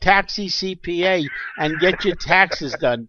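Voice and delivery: high, loud pitchman shout-out; loud ad plug. Real, not acted. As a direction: hype it like a radio plug. Calling out an ad plug.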